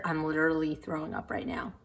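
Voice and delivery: hushed, breathy disgust under her breath; whispered book hate. Real, not acted. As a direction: whisper it like a guilty confession. Disgusted aside about the book.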